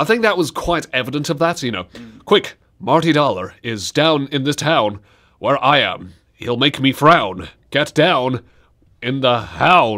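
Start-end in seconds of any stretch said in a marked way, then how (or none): 2.2-10.0 slower with odd pauses and inflections. Describing an actor's odd delivery, then doing a Shatner impression with strange pauses. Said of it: "he kind of acts like this, but strange pauses and unnecessary inflections".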